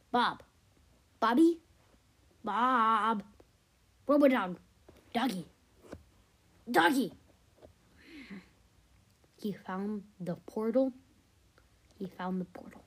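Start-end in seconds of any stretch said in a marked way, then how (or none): 0.1-3.2 loud call of the name. Acted. Child calling out to character. 4.1-10.0 calling out. Acted. Calling the dog loudly.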